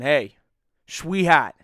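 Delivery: lightly voiced douchebag come-on. Douchebag hollering at a girl to take her out, lightly put on. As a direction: call out like a cocky douchebag. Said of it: "act like a douchebag saying".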